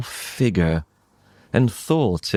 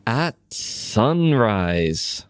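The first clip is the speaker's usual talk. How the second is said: plain reading voice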